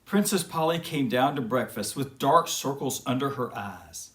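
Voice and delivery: reading a bedtime story to little ones; lightly storytelling tone, unhurried; storybook narration. A narrator's reading. Host reading a princess story to kids, storytelling. Host reads fairy tale aloud.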